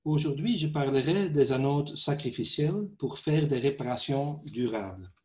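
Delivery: non-native French speaker with a foreign accent; French spoken with a foreign accent. Real, not acted. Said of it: "mon français n'est pas très bien".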